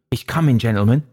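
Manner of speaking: mildly breathless warning. A narrator's reading. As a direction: burst out with a touch of breathlessness. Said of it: "he said breathlessly".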